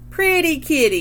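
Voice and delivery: high, loud parrot yell. A narrator's reading. Roger yells back at mom, high parrot squawk. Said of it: "And Roger yells".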